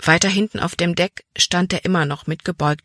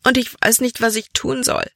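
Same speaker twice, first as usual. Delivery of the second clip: tearful helplessness; 6 semitones higher than usual. A narrator's reading. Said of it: "schluchzte sie".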